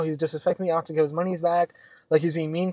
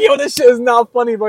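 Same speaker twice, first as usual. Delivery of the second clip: retold loud protest; 7 semitones higher, 9 dB louder than usual.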